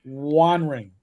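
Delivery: Wandering as WAN-RING, dropped low; mock the typo, saying Wandering as wan-ring; Wandering read just as misspelled, wan-ring; mocking misspelled pronunciation. Shown as a demonstration. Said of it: "not warning".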